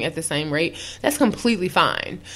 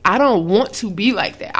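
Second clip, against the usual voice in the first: ordinary talk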